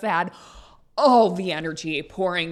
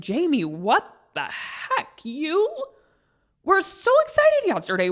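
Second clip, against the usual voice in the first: husband teasing her mood swing, mock higher voice; imitating husband; 7 semitones higher than usual. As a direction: tease like a puzzled husband. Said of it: "he was the one who mentioned".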